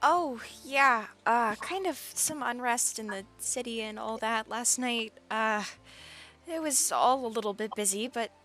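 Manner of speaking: quiet, just-woken NPC voice; sleepy Twister. Acted.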